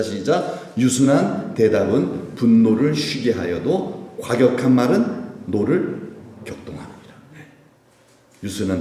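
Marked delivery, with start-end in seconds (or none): 0.8-7.0 measured, unhurried recitation; slow scripture reading. Shown as a demonstration. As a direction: read slowly, like scripture read aloud. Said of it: "봅시다". (천천히 성경 봉독하듯)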